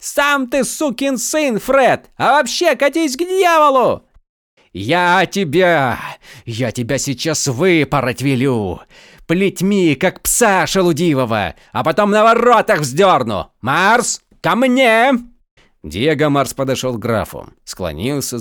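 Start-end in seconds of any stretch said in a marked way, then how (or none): 0.0-4.1 very high, loud jeering yell; defiant shout. Acted. Prisoner hurls insult back. 4.7-15.1 loud, higher, sputtering fury; raging threat. Acted. Count rages, threatens flogging.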